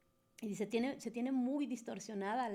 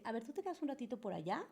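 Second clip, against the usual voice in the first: brushing someone off; 4 dB quieter, much faster than usual. Retold or imitated. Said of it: "direccionar hacia ustedes y decir".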